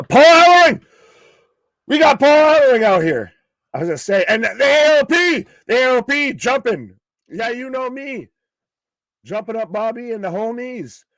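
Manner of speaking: high-pitched, thrilled shouting, easing in volume; real excited pop. Real, not acted. Wrestling fan spots Paul Ellering coming out, excited high shouting. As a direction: pop for a surprise arrival, voice shooting way up. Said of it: "you popped, and you were excited".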